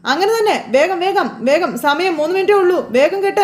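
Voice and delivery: high-pitched hurry-up urging; urgent cheering. Retold or imitated. Husband spurring his wife to finish the garland in time, high and urgent. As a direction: push her on like a coach against the clock. Sachi urges Revathi during timed contest.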